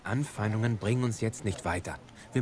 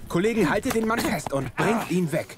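loud, higher barked command over the scuffle; shouted order; 8 semitones higher, 5 dB louder than usual. Acted. Commissioner shouts for colleagues to drag the attacker away, loud urgent command. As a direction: call the officers in sharply.

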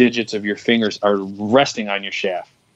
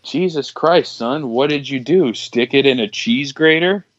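joking doctor; 3 semitones higher than usual. Retold or imitated. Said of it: "in an effort to make me laugh".

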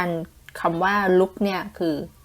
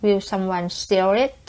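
example sentence read; 3 semitones higher, much slower than usual. Shown as a demonstration. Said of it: "บอกว่า".

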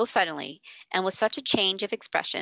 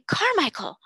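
second cry, louder and higher; 9 semitones higher, 4 dB louder than usual. Acted. Invalid crying out to his friend again, loud and high. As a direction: call the name again, loud and urgent. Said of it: "cried out loudly".

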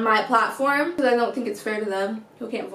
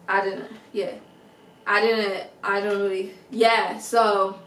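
put-on boyfriend wrapping up the call; lowered boyfriend voice.

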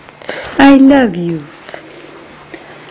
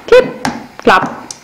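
whispered. Real, not acted. Mimicking toddler's shoe noise.

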